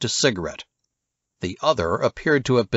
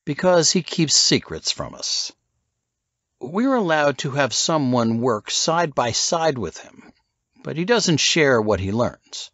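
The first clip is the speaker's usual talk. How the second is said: lightly higher Jones voice; a hint of a cool spy; Jones confiding; 5 semitones higher than usual. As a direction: explain the secret book. Jones explains secrets.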